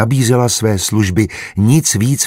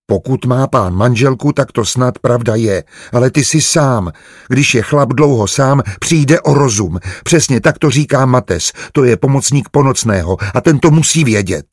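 lightly voiced maid, pitched higher; naive young maid; 4 semitones higher than usual. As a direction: argue earnestly with naive certainty. Voices Barča arguing naively. (naivní služebná, přesvědčeně)

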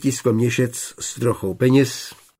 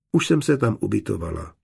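calmly; faster than usual. Acted. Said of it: "odpověděla klidně".

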